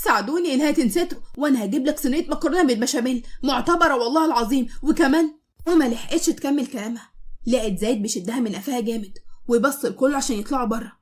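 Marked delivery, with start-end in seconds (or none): 0.0-5.3 hammed-up plea to be left alone; comic pleading. Wife begs the guests comically, mock pleading. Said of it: "بطريقة مضحكة".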